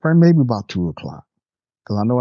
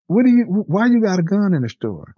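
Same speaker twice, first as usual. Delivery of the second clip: high-pitched, stumbling disbelief; retold alarmed question; 11 semitones higher than usual. Boss spotting employee's gun in the store, acted alarm. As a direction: act out startled questioning, pitch jumping up.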